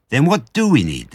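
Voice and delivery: put-on high-pitched child's question; eager high little voice; smallest fox. A narrator's reading. Smallest fox asks Dad.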